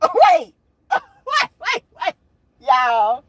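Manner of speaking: high, loud laughter through the words; cracking up, can barely talk; laughing hard. Real, not acted. Laughing at the boss's brush-off, wait wait.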